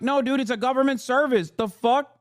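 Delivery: high, incredulous "no, dude"; incredulous correction; exasperated retort. Retold or imitated. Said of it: "It's like".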